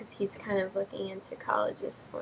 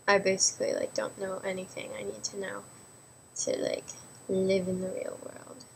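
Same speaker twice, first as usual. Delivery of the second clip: weird voice. Real, not acted. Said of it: "Why am I talking in a weird voice?".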